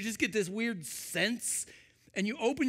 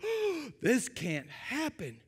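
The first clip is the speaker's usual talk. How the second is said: shocked gasp; 4 semitones higher, 3 dB quieter, slower than usual. Retold or imitated. Original reader's shocked reaction.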